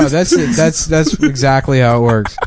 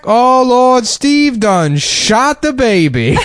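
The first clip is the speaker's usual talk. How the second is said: panicked Southern voice; 10 semitones higher, much slower than usual. Retold or imitated. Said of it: "he's like".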